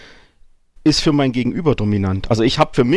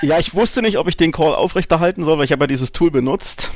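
clipping distorted mic; 4 semitones higher than usual. Real, not acted. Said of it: "du übersteuerst ganz fürchterlich".

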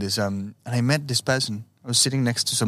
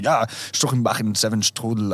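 made-up German gibberish, lightly put on; mock German, said with confidence; pretend German. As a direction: fake a German accent with invented words. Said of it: "pretending you have an accent".

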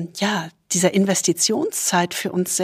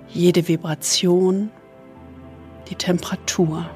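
soothing spa whisper; 4 dB quieter than usual. Acted. Leads a body scan meditation.

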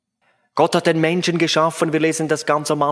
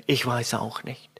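put-on mildly weepy child. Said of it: "mit weinerlicher Stimme".

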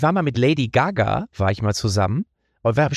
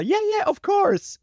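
much higher, slow sing-song mock star voice; pop star reply; slower than usual. Comedian imitating a pop star's polite promise, slow and much higher. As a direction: stretch it out high like a polite pop star. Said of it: "sie grüßte noch so".

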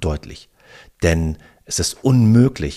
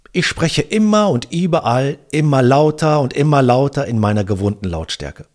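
loud practice sentence; 5 semitones higher, 4 dB louder than usual. Shown as a demonstration. Coach showing the loudness drill to a phone trainee, loud and raised. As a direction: demonstrate the sentence louder and higher. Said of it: "Verinnerliche folgenden Satz".

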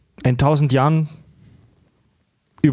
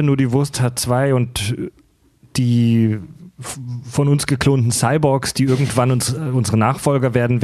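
theatrical. Acted. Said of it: "warum so theatralisch heute".

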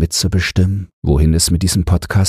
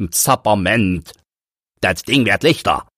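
wondering; 3 semitones higher than usual. Acted. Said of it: "verwundert steht und spricht er".

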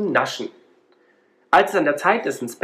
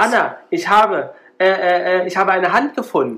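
stammering in shock, higher and louder; 5 semitones higher, 5 dB louder than usual. A narrator's reading. Storyteller voicing Emil telling Anna about the hand, stammering in fright. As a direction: stumble over the words, frightened. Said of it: "stottert Emil".

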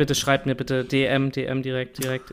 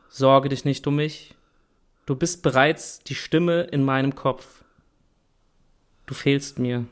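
reading lyrics aloud. Shown as a demonstration. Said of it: "ich mach jetzt noch weiter mit dem Refrain".

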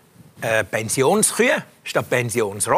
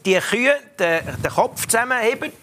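sports commentator; 5 semitones higher than usual. Shown as a demonstration. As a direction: call it like a sports reporter. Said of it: "wie ein Sportreporter".

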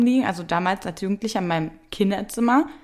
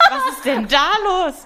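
laughed out high and louder; laughing; 10 semitones higher, 4 dB louder than usual. Real, not acted. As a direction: laugh through the question. Laughing at partner's slip. (lachend, hoch und lauter)

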